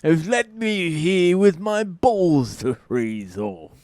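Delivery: slow, hammed-up old-timey grumble; mock founding father. Washington cursing the French, in a slow mock old-timey voice. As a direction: grumble like a stranded colonial.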